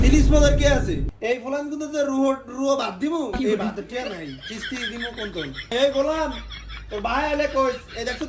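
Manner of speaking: angry scolding, bursting out loud then easing; shouting. Acted. Mother berating child over the loan payment, shouting. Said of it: "আনে তো সিলাসিলি কথা আছেন কি লিগা".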